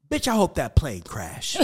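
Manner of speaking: retelling his angry line to the agent with a laugh; mock angry outburst. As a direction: spit it out, half laughing at yourself. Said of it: "I bust out laughing".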